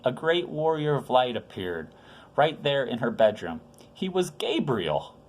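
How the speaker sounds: gentle storyteller voice for little ones; story reading to children. A narrator's reading. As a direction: read it like a bedtime Bible story. Reads Christmas story to children.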